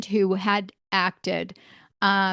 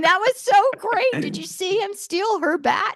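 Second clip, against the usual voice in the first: much higher, louder gushing parent voice; excited parents; 12 semitones higher, 3 dB louder than usual. Retold or imitated. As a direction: gush like a thrilled parent after the show. Parents gushing after kids' play.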